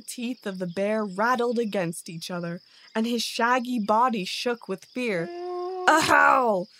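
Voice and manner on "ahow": high, loud startled yelp; startled cry. A narrator's reading. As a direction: cry out as if just shot. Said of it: "cried he, as if he had been shot".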